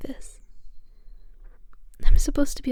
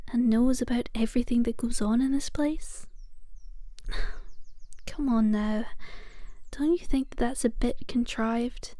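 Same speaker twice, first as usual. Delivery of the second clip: whispered reassurance. Acted. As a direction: hush it all, calm and patient, like a nurse at the bedside. Whispered caretaker roleplay throughout.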